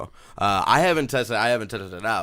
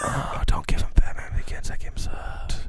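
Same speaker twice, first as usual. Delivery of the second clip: right in your ear; 3 dB louder than usual. Pretend. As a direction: close ASMR whisper. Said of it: "This is the A S M R hour".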